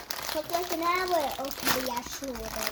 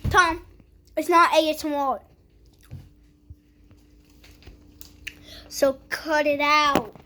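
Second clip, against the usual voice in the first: scolding; 6 dB louder than usual. Real, not acted. Scolding brother, loud.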